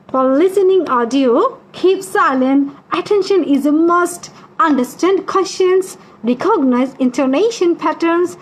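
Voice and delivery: very slow, measured instruction reading; drawn-out phrases with careful spacing; slow read-aloud. Real, not acted. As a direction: recite each rule slowly for the class. Reads listening instructions aloud.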